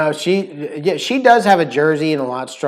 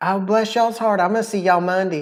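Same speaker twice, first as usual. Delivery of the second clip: put-on strong, high-pitched Southern accent; 5 semitones higher than usual. Acting out how mom talks, in a put-on southern accent. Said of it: "your mom says it really southern".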